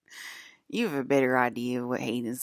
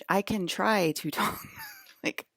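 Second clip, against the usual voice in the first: higher careful voice, cracking into laughter; Alyssa voice; 6 semitones higher, slower than usual. Shown as a demonstration. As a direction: attempt a put-on normal voice and lose it laughing. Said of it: "try to talk like Alyssa".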